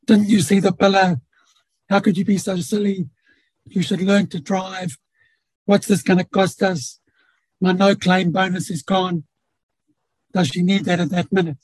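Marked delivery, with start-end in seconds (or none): 0.0-9.2 critical scolding tone. Retold or imitated. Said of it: "two conversations that can take place".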